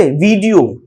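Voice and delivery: "वीडियो" with a short first i; quick first vowel in "वीडियो"; correct pronunciation. Shown as a demonstration. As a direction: say "वीडियो" as VID-ee-o. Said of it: "वीडियो होता है".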